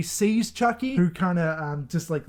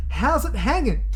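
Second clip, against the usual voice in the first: imitazione di Chucky; 6 semitones higher than usual. Retold or imitated. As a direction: toss out the greeting high, with punch. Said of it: "That's not how he says it".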